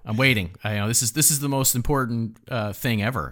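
mock eager, dripping sarcasm; sarcastic. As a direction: play it as fake excitement. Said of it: "I don't wanna be too sarcastic".

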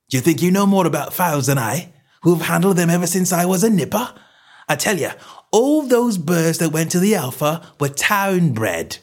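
high, insistent tradesman's voice; riled seller, slowing to hammer the last point; indignant stallholder. Acted. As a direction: insist on your expertise. Salesman argues, riled.

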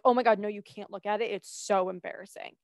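flustered refusal. Retold or imitated. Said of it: "I would be like".

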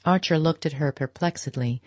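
ordinary delivery

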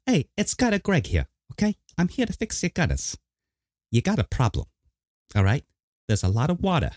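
lightly done New York governor voice; a hint of Cuomo, fast-talking tough guy; mock Cuomo hawking gutter repair; Cuomo impression. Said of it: "in a Cuomo voice".

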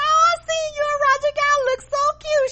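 mimicking gushing cousin. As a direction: gush like the cousin. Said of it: "she said".

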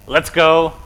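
lightly acted sports cheer; victory cheer. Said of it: "something you say when you win".

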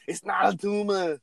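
Arnold impression. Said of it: "everybody does kindergarten cop".

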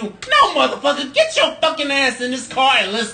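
high, harsh mock order; mean demand. Friend retells yelling at a buddy, mean and high. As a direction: snap the order like you mean it. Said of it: "you so mean".

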